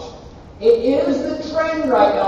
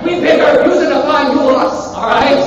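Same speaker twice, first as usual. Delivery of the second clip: loud, hammed-up Chinese accent; 4 semitones higher, 6 dB louder than usual. Lecturer voices China answering back over Taiwan, mock Chinese accent. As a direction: put on a joking Chinese accent, raised and loud. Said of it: "Sorry for my Chinese accent".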